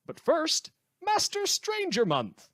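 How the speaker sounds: radio host hyping the next segment, grand announcement; big announcement. Acted. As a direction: sell the segment title like a game-show host.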